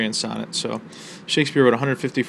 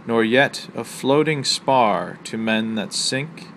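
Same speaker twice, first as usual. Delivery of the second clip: slow, measured poetry recital; reading a Millay sonnet to the class, measured and slow; poem reading; slower than usual. Acted. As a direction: give each line its weight like a sonnet. Reads the sonnet aloud.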